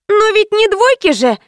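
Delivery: put-on high, sulky teen protest; displeased protest. A narrator's reading. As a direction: whine back in protest. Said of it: "недовольно сказала Кристина".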